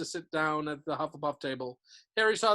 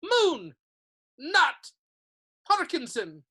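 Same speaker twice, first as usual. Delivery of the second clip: calling out names; 9 semitones higher, 8 dB louder, much slower than usual. A narrator's reading.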